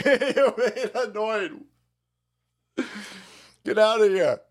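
drawn out, very slow put-on voice; slow mock Joe. Host as Joe Rogan brushing off a critic, slow drawl. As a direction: drag it out lazily, laughing. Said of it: "even Joe goes".

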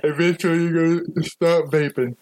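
talking through a yawn. Real, not acted. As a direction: yawn while speaking. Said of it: "Excuse me for the yawn".

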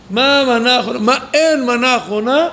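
lightly voiced disappointed kid; a hint of a child's complaint; demanding child. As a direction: ask like a kid checking the meal. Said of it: "איך ילדים בודקים ארוחה?".

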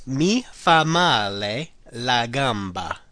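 slow, deliberate repeat. Shown as a demonstration. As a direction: drag it out for learners. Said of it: "So it's".

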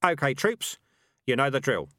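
rally the troops, pitch up; shouted. A narrator's reading. Dark Tan addresses the assembled rats, calling out. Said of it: "he shouted".

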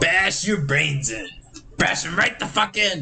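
slow, drawn-out mock menace; menacing film villain. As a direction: stretch the threat out slowly, rising at the end. Acts out a menacing film line.

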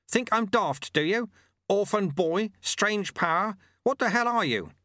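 high, loud fierce challenge; fierce demanding. A narrator's reading. Old sweeper shouting at the apprentice, fierce demanding. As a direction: press him hard, almost shouting. Angry Lu Tse confronting Lobsang.

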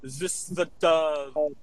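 lightly put-on Czech accent; mock Czech-accented English. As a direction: attempt a halting Czech accent. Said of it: "I'll speak like a Czechian".

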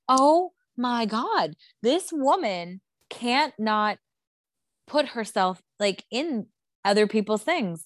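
high, drawn-out disbelief; exasperated. Retold or imitated. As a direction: stretch the words in exasperated outrage. Voicing own exasperation at Kyle.

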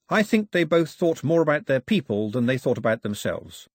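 put-on a boy mumbling toward his feet; shy boy. Boy answering after the girl, shy. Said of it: "The boy looked down at his feet".

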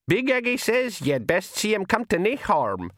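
high, broad Feegle voice; old pixie voice. Acted. The old pixie passes the kelder's order to the clan.

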